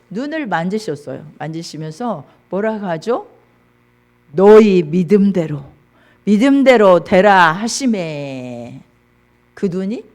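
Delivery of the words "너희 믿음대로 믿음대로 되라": loud, weighty proclamation; authoritative command. Acted. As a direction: pronounce it as a healing decree. Acts Jesus' command of healing. (힘 있게 선포하듯)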